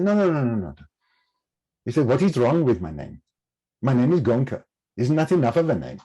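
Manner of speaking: a hint of an Indian teacher's accent, gently protesting; bad Indian accent. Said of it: "Excuse the bad Indian accent".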